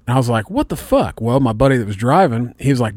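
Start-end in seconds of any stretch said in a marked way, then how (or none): 0.5-1.2 a high, disbelieving "what the fuck"; half-mocking himself, disbelief jumps up; incredulous outburst. Retelling his outrage at the friend who won't pay, incredulous.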